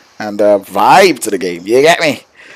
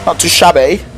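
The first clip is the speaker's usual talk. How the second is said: playful, slightly higher British accent; attempted British accent; 4 semitones higher than usual. Shown as a demonstration. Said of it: "I'm trying to unlock my British accent".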